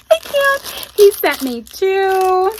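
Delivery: can't contain your excitement; overjoyed squeal. Real, not acted. Counting the gifts, overwhelmed.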